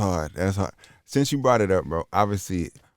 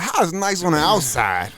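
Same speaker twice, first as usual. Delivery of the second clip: imitating disgusted friend; 10 semitones higher than usual. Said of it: "he like".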